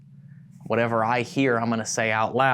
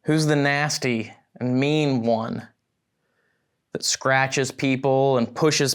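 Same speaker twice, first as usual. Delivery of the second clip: slow, deliberate demand into the room; challenging the spirit; 2 semitones higher, slower than usual. Real, not acted. Investigator questions the entity that threatens people, challenging. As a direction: call it out slowly, building to the last question.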